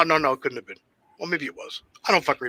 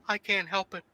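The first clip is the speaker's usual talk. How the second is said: sheepish quote; 12 dB quieter than usual. Retold or imitated. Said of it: "he looks at me and goes".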